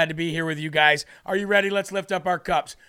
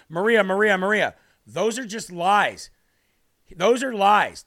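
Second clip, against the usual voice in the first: mock insistent cut-in, louder on the repeats; imitated interruption; 4 dB louder than usual. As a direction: mimic a politician talking over the host. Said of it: "he cuts her off".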